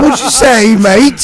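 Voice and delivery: put-on gentleman voice. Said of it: "People think that that's really how you fucking talk".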